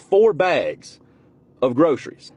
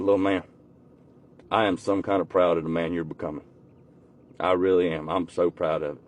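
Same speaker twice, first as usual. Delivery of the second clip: choked-up pride; 9 semitones lower, 7 dB quieter than usual. Retold or imitated. Uncle moved, voice breaking with pride.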